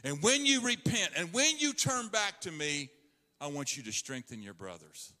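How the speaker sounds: gentle encouragement; tender Lord. Acted. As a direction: comfort Peter after his failure. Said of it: "The Lord said".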